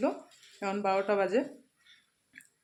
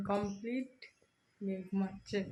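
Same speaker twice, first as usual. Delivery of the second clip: hushed, quiet voice; 9 dB quieter than usual. Real, not acted. Mother talks softly while her daughter sleeps, hushed. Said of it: "আস্তে কথা বলি".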